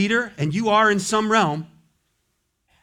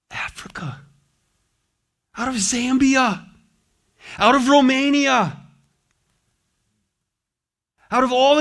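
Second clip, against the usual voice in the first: higher and louder, proudly presenting each nation; rising exultation; 7 semitones higher, 3 dB louder than usual. Acted. Paul showing Jesus the redeemed, exultant cry. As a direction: build the joy country by country.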